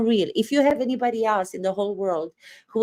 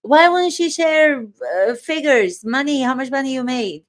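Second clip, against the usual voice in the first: indignant; 3 semitones higher, 3 dB louder than usual. Real, not acted. Indignant outburst on sales.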